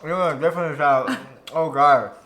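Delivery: talking while chewing candy; words round a sticky bite; mouth full. Real, not acted. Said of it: "I'm sorry if you don't like chewing sounds".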